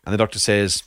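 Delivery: setting up a groaner; telling a dad joke. Acted. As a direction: deliver a cheesy punchline. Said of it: "a joke, which I'm gonna share".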